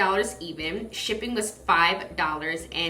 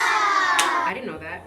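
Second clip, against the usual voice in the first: surprised; 10 semitones higher, 6 dB louder, slower than usual. Acted. Fun fact, playful mock surprise.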